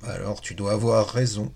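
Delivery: deflated, resigned reply; the beaten sphinx concedes, lightly glum; sorrowful tone. Acted. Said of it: "d'un ton chagrin".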